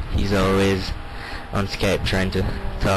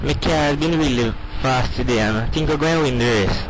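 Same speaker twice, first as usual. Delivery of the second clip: Jamaican patois. Shown as a demonstration. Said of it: "can you give us a little bit of that?".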